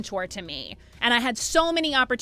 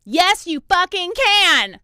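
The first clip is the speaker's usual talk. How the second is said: loud, slow, hammed-up pep yell; playful hype shout back at the clip; mock motivational shout; 6 semitones higher, 7 dB louder, much slower than usual. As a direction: echo the clip like a coach. Answers the played motivational shouting clip.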